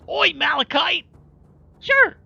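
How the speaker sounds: high squeaky greeting voice. Acted. Streamer greeting chatters in a very high, loud cartoon voice. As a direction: yell the hellos like a squeaky cartoon.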